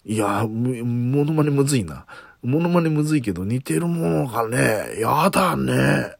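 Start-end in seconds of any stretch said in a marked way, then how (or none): 5.0-6.2 slow, lightly voiced Matsuko line; drawn out, nudging toward Matsuko; Matsuko impression. Shown as a demonstration. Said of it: "やだねっていうか、そういうセリフで". (ゆっくり軽くマツコ風に)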